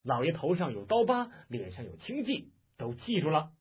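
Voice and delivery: understated angry shout; barked retort. Acted. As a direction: throw the words back at the captor. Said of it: "杨铁心喝道".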